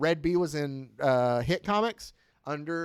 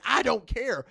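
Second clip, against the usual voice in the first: raised-pitch, impatient acted order; freaking out; 6 semitones higher than usual. Boss orders the task force fetched, freaking out. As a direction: cut off the objection in mock alarm. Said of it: "she starts freaking out".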